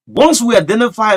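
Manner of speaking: loud, high presidential warning; booming imitation of the president; Joseph Boyka voice. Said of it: "in the Joseph Boyka voice".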